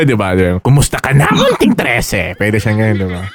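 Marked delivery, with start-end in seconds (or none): 0.6-2.3 Leonor Briones. Retold or imitated. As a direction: mimic the official's timbre on the villain's greeting. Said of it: "kasi ganun yung timbre".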